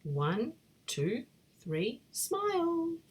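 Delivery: photo countdown. Acted.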